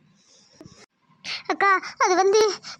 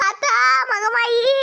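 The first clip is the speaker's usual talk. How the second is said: crying out to goddess; slower than usual. Acted. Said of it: "அக்கா, கத்தாதக்கா".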